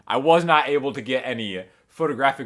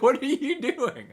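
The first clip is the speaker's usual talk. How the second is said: incredulous question; 10 semitones higher than usual. Retold or imitated. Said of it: "And I'm like".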